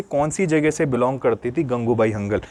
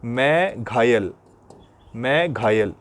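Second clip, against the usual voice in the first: slow mnemonic; 2 semitones lower, slower than usual. Shown as a demonstration. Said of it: "Meghalaya को कैसे याद रखोगे?".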